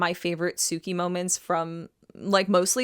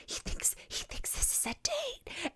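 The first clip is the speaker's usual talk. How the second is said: high, breathless whisper of a secret; mock whisper; 13 dB quieter than usual. Host whispers Sookie's panicked aside to Lorelai. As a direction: hush it like telling a scandalous secret. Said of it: "she's like".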